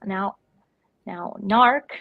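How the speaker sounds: Curly Q two impression. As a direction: imitate someone winding everybody up. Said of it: "he's just winding everybody up".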